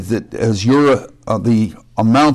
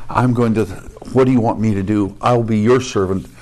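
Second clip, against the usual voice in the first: humble prayer; 2 semitones lower than usual. Retold or imitated. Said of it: "or it's saying".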